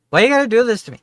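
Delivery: high, loud mock whine; whiny protest. Real, not acted. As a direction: wail it like a wounded victim.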